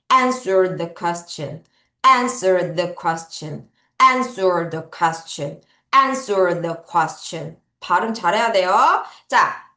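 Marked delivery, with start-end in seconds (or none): 0.1-7.6 very slow and low, each word spaced out; slow model phrase. Shown as a demonstration. Teacher modelling a phrase slowly for pupils to repeat. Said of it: "답할 때는 answer the question".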